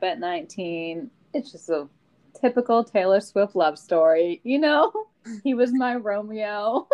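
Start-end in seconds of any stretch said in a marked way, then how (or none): 5.4-6.9 laughing mock swoon. Mock romantic pop-song line.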